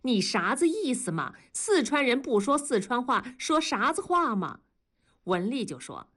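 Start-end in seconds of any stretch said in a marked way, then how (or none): 0.0-4.6 Sichuan dialect. Acted. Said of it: "用一口四川话说".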